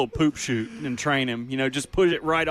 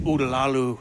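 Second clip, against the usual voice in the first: mock spell-casting; 3 semitones lower than usual. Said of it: "Sounds like Ross is casting spells".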